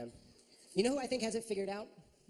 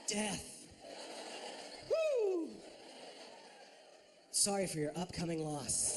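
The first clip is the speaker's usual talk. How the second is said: awkward fumbling; 4 dB quieter, much slower than usual. Retold or imitated. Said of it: "hold the turd".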